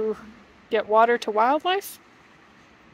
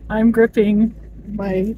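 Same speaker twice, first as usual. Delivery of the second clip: nervous; 7 dB louder than usual. Real, not acted. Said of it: "I'm gripping my door handle so tight".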